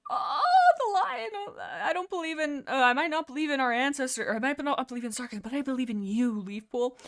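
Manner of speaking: swooning mock gasp. Fan swooning at Mothwing's line, hammed-up and high. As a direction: melt over the romantic line, pitched high. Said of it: "And I'm like, gasps".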